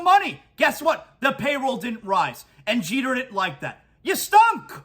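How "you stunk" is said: loud, much higher taunt at him; angry jab. Acted. Host taunting absent Jeter, loud angry jab. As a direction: spit it at him like he's in the room.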